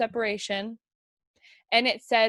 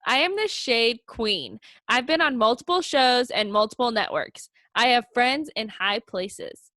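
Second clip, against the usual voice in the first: reality show intro voice. Pretend. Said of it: "talk like I'm in their intros".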